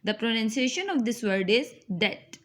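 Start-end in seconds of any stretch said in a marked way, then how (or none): 2.0-2.4 "det" with the B left out; no B at all in "det"; silent B in debt. Shown as a demonstration. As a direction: pronounce "det" like get with a D. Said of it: "B should be silent here".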